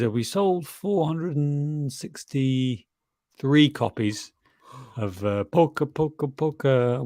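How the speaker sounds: John Candy quote. Retold or imitated. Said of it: "and he says".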